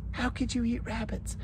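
high, soft mock dismay; mock objector. Rabbit lover to the farmer, high mock protest. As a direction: imitate a squeamish critic in a small high voice.

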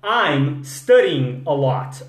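I'm studying a lot. said slowly, each word clear; slow model sentence. Shown as a demonstration. Teacher modeling the sentence slowly for students.

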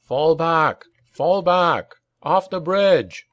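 high, urgent retreat order; commander's battle cry, pitched high; cried command. A narrator's reading. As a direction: call the troops back over the din. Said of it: "he cried".

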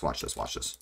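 whispered, low and hushed. Real, not acted. Sneaking up on an enemy player in the game, whispered.

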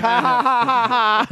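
forced high laugh; fake nervous laugh. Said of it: "I'm like".

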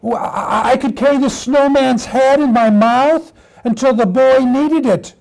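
daydream, then call out as a puppy; eager little puppy. Acted. Puppy approaches Irish setter by the snowman, eager puppy voice.

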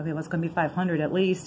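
breathless and winded; gasping a little between words; out of breath. Real, not acted. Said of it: "I need to catch my breath here".

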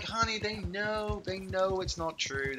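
mock-pleading husband voice; placating husband. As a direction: soothe your wife, stretching the words. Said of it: "I'm like".

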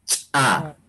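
"Cha" with a sharp popped ch, a tiny gap, then the vowel; popped ejective ch. Shown as a demonstration. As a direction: pop the ch of "Cha" apart from the a. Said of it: "¿Cómo se pronuncia?".

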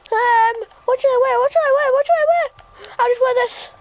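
fussy. Acted. Fussing over outfit, high.

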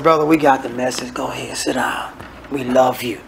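low, hushed coaxing; soft, low, soothing aside; gentle intervention. Acted. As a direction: quietly ease a brother off the pulpit. Gently sending troubled preacher to sit.

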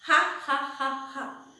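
mock laugh in separate ha's; put-on laugh for others to copy; demonstrated laugh. Shown as a demonstration. Teacher getting children to copy, pretend laughing. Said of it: "Do it".

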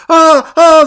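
short, high, loud mock screams; udawany krzyk przerażenia. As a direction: cry out like a frightened victim for the cameras. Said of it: "zacznie krzyczeć". (udawane, wysokie okrzyki strachu)

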